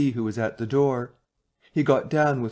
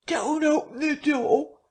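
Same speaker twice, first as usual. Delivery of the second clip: high, slow shrieking plea; terrified scream. A narrator's reading. Marvel hiding behind the bar, screaming at the men. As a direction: scream it in terror. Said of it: "he screamed".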